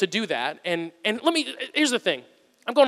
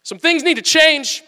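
slow, weighty, higher pronouncement; slow mock-solemn church announcement; mock serious announcement; 8 semitones higher, 5 dB louder, slower than usual. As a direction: deliver it like a grave new policy. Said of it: "and being like".

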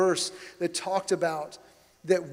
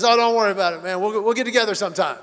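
laughing reassurance; 2 semitones higher, 8 dB louder, much faster than usual. Retold or imitated. Driver friendly, laughing.

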